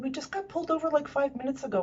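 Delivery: exasperated, can't believe it again; pleading with yet another police stop; exasperated plea. Retold or imitated.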